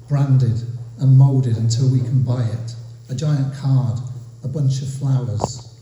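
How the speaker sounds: measured list poem with a repeated opening; deliberate spoken verse, building line on line; poetry reading. Acted. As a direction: let each refrain land, then pause. Reads own poem aloud.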